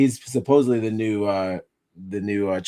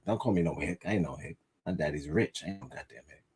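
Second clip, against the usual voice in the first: mock offended redneck; 7 semitones lower, 10 dB quieter, faster than usual. Impersonating offended white man.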